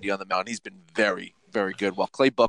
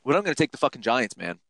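worked-up, higher-pitched defiance; irked; 5 semitones higher than usual. Real, not acted. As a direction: vent real irritation, pitch climbing as you commit. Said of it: "I shouldn't bet while I'm angry".

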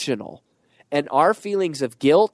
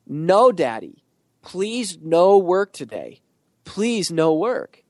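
retold little girl begging, pitched up and slow; pleading toddler; 4 semitones higher, slower than usual. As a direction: imitate a tearful toddler pleading. Toddler begging daddy not to leave.

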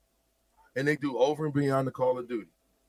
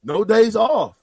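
loud; 7 semitones higher, 7 dB louder, much slower than usual. Shown as a demonstration. Moniker repeated with force.

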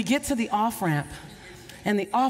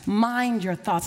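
slow echo; slower than usual. Acted. Preacher repeats the charge, slow echo. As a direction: echo it slowly.

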